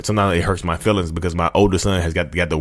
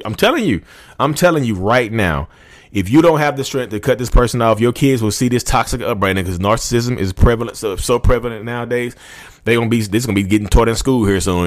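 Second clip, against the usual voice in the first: heated rant; 4 semitones higher than usual. Real, not acted. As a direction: drive it home like a passionate rant. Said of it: "sorry about this rant".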